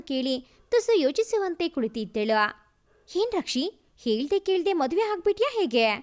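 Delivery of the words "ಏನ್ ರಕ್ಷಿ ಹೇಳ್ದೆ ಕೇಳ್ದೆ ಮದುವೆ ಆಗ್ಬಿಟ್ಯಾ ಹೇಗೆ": a touch of playful teasing. Acted. Friend teases Rakshita about marrying without telling, light teasing. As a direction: gently rib her about the secret wedding. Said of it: "ತುಸು ಕೀಟಲೆ ಮಾಡುತ್ತಾ".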